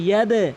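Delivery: ইয়াদে with a bouncing echo after d; pushed d. Shown as a demonstration. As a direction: give the d of ইয়াদে a push. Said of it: "ধাক্কা দিয়ে উচ্চারণ করবেন".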